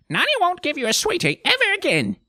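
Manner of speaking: high, loud, hurried threat; scolding grandmother. Acted. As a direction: warn the child to shut up at once. Nanny threatens child with nastiest punishment.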